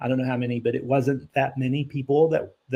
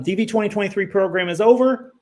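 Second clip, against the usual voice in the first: exasperated, pitched up and emphatic; worn-out patience, insistent and raised; frustrated; 3 semitones higher, 4 dB louder than usual. Real, not acted. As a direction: vent about being asked endlessly. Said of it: "It's frustrating".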